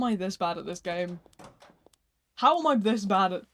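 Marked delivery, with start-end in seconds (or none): 2.4-3.4 louder, exasperated repeat. Real, not acted. Streamer failing at the game, exasperated. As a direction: punch it out in frustration.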